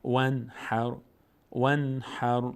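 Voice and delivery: "ونحر" with a clear n released at once; "ونحر" with no hum on the n; clear short n. Shown as a demonstration. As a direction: pass straight from n to h in "ونحر".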